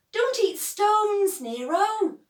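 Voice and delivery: high, loud, slow shout; loud scolding call to a dog. A narrator's reading. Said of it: "shouts Lamont".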